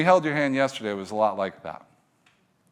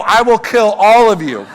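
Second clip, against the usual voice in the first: loud, high comic roar; mock-furious threat; 9 semitones higher, 13 dB louder than usual. Dad yelling at kids in line, mock fury. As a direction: bellow it at them, hammed-up.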